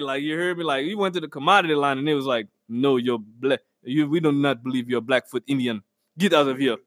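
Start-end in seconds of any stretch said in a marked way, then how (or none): 2.7-6.8 lower-pitched, mock official refusal; stern gatekeeper. Clerk refusing a man in the commodity line, mock stern. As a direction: turn him away with low authority.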